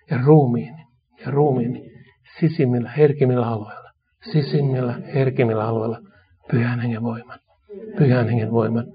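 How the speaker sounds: a pastor's call-and-repeat prayer; led prayer. Real, not acted. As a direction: lead the church line by line in prayer. Leads congregation in repeated prayer.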